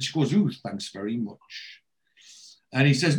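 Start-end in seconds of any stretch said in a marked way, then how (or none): 0.3-1.8 slow, lightly affronted retort; mock offended. Brenda answering Wayne's tactless remark, mock offended. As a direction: play at being a little offended, lower and slower. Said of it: "a little bit mock offended".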